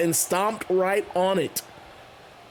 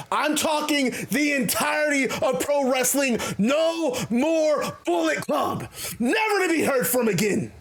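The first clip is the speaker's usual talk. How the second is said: heel promo; 2 semitones higher than usual. Retold or imitated. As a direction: taunt him, building to a shouted threat. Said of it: "And Haku says".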